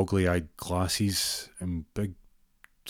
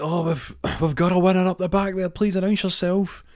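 bingo caller voice; 11 semitones higher, 5 dB louder than usual. Retold or imitated. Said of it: "He's like".

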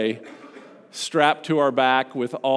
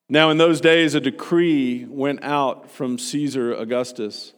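scripture reading. Acted. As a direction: read the passage to the congregation, unhurried. Reads Luke two aloud.

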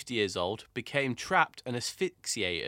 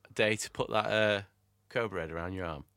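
mock dare; 4 semitones lower, faster than usual. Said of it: "Let's do this one again".

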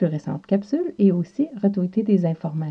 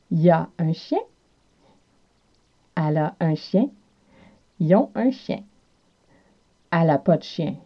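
Quebec French accent. Shown as a demonstration. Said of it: "en québécois devient y a".

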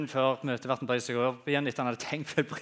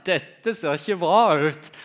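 laughing a little; 6 dB louder, slower than usual. Retold or imitated. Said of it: "Og faktisk begynner å le litt".

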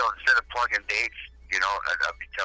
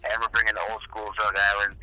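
over the phone. Real, not acted. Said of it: "I'm on the phone right now with".

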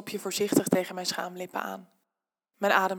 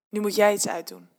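commanding; 5 dB louder than usual. Acted. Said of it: "beveelt hij me".

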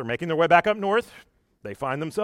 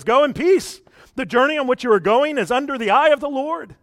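raised, louder mock blessing; priestly pronouncement; 7 semitones higher, 5 dB louder than usual. Priest sending the spies off on their journey, grandly pronouncing. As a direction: proclaim it like an official blessing.

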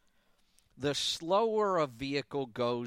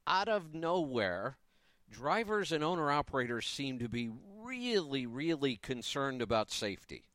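mildly sarcastic. Real, not acted. Host on drivers' sudden concern about safety, mildly sarcastic. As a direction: feign surprise with a dry, sarcastic edge. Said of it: "I say that kind of sarcastically".

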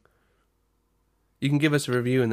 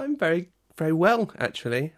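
spiteful; 4 semitones higher than usual. Real, not acted. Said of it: "You said that with spite".

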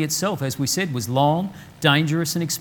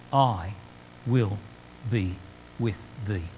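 slow, word by word with pauses, "will" held and weighted, then softer and lower; stress on will; 6 semitones lower, 6 dB quieter, slower than usual. Shown as a demonstration. Preacher stressing God's promise to the exiles, weighty on "will". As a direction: land on "will" and let each word stand alone. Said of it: "The emphasis here is on the word will".

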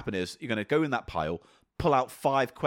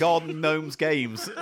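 laughing; 3 semitones higher, much slower than usual. Acted. Laughing intro parody.

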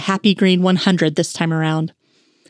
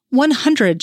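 higher, clenched-teeth annoyance; a touch of irritation held back through clenched teeth; between her teeth; 6 semitones higher than usual. Acted. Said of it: "she said between her teeth".

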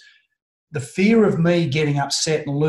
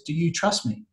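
calm; 3 semitones higher, 5 dB quieter than usual. Retold or imitated. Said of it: "He calmly looked at me".

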